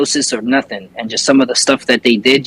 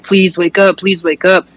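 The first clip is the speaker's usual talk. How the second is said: higher-pitched imitation of begging; retold desperate pleading; 4 semitones higher than usual. Wife begs her unconscious husband, retold desperate plea. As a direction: plead urgently, without crying or shouting.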